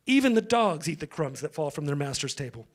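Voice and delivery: low, soft humility; humble reply. A narrator's reading. Woman answering Jesus after being rebuffed, humble.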